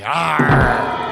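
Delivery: low gruff pirate "arr"; pirate growl. Acted. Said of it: "Why am I talking like a pirate now".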